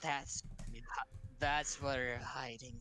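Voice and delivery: slow, breathy whisper from far off; faint voice. Acted. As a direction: whisper it like a distant woman. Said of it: "you hear a faint voice. It sounds of a woman".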